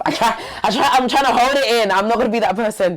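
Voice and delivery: fighting not to cry, pitch climbing; holding back tears. Real, not acted. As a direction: voice straining high as tears come. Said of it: "I try not to cry myself".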